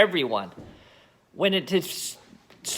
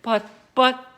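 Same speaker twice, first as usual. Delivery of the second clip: high, loud, stuck on the word but; stammering; 7 semitones higher, 6 dB louder, slower than usual. Acted. George's mother stammering at the giant hen, high and loud. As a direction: stammer it out in shock. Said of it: "stammered George's mother".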